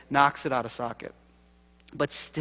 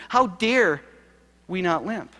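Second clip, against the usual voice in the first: impassioned; 5 semitones higher, 4 dB louder, slower than usual. Real, not acted. Building rhetorical outrage.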